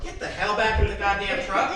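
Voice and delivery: loud, high retold angry order; imitated yelling. Dad ordering the shaken learner back in, imitated yelling. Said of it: "He always yelled".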